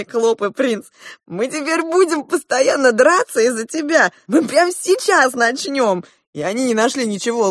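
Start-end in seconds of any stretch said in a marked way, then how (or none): 1.3-6.0 high, agitated outburst; excited cry. A narrator's reading. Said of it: "закричали, пряча лица в ладони". (возбуждённый крик, высоко)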